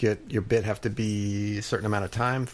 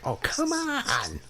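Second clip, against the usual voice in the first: exasperated groan; much slower than usual. Retold or imitated. Retold audition panic.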